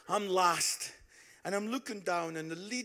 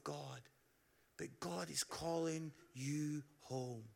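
tender appeal. Real, not acted. Tender altar call.

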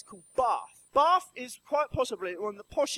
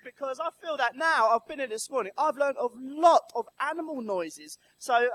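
usual speaking voice

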